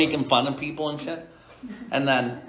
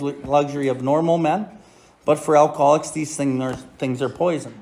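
steady, measured reading of a passage; reading text aloud. Acted. Sponsor reading the Big Book to the group, measured. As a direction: read it out to the meeting, evenly.

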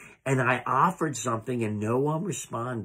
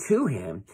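"to" punched, then "him" dropping away; stress on "to"; 4 semitones lower than usual. Real, not acted. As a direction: hit "to", let "him" fall. Recap contrasting to with for.

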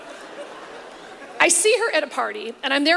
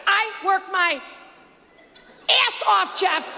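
a hint of Paula whining about hard work; Paula impression; 3 semitones higher, slower than usual. Comedian mimics Paula complaining to Jeff, mild mock whine. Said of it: "she said on that show".

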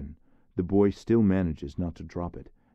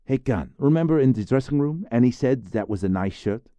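high, loud call for backup; appealing boy; 7 semitones higher, 7 dB louder than usual. Acted. Therese calls on Khan to confirm Annie's praise, high and loud. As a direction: rope in a friend to back him.

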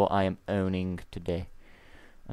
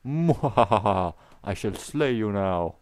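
slow mock villain gloat; hammed-up evil laugh; 4 dB louder, slower than usual.

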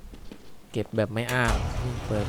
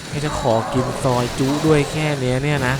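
incredulous raised complaint; indignant complaint; 3 semitones higher, 5 dB louder than usual. Real, not acted. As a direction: scold the ghost for overreacting. Complaining at angry ghost.

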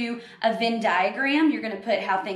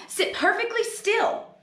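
much higher, slow, drawn-out order; stern command; 11 semitones higher than usual. Acted. Miss Swamp ordering the kids to sit still. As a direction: lay down the law one word at a time.

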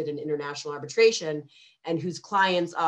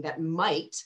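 mild weight on "might"; stress on might. Shown as a demonstration. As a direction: lean on "might" a little. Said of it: "I emphasize the word might".

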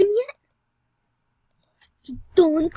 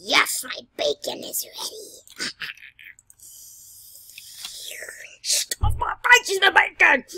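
excited shout; 4 semitones higher, 5 dB louder than usual. Real, not acted. Gleeful over ready bacon.

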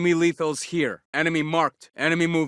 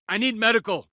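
higher-pitched plea for a medic; pressed, urgent combat call; urgent call for help; 5 semitones higher, faster than usual. Acted. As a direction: call for aid mid-fight.

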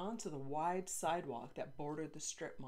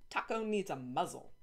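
bossy scolding; 4 dB louder than usual. Acted. Girl scolds dog owner.

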